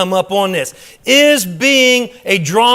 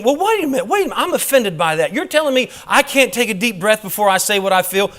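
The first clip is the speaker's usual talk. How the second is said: mock offended; 2 semitones higher than usual. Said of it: "You know the difference between".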